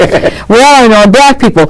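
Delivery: Mister Batson voice. Retold or imitated. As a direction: declaim it like an old orator. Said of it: "listen to my Mister Batson".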